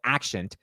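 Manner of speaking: "accent" pronounced "ak-shent". Shown as a demonstration. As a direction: say "accent" with sh in the middle. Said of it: "sounds like shint versus sint".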